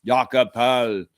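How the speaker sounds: slow, deliberate Austrian "Jakob Poeltl"; "Jakob Poeltl", drawn out with Austrian vowels; proper Austrian pronunciation. Shown as a demonstration. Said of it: "that's the proper pronunciation".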